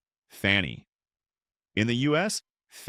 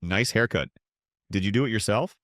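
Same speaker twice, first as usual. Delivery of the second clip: sarcastic with a smile. Retold or imitated. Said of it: "Brits insult you with a smile".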